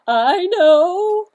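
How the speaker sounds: high, loud silly duck; squeaky duck voice. Acted. Duck's eager interruption.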